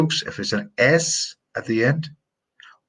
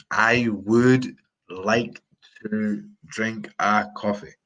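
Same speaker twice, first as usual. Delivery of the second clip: slow example; slower than usual. Shown as a demonstration. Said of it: "As in".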